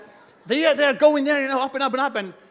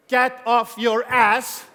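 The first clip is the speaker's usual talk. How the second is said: emphatic push; 3 semitones higher, 6 dB louder, much slower than usual. Real, not acted. Motivating audience to act.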